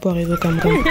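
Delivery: ordinary talk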